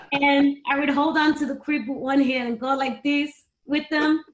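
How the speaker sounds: amused, rising laugh in the voice. Real, not acted. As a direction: laugh as you describe it. Laughing at dating herself.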